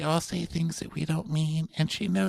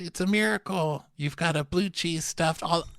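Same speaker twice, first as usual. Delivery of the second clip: mock excited doctor; 6 semitones higher, slower than usual. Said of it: "my doc said".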